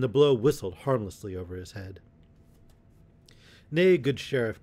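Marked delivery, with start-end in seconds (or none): 3.7-4.6 high, loud taunt; crying out. A narrator's reading. Little John after dodging the sheriff's blow, crying out. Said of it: "cried he".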